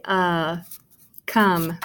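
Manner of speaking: "uh" held alone, then "come" with that vowel; short U sound. Shown as a demonstration. Teacher explaining the short vowel, sounding out. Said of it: "if it's a short vowel U".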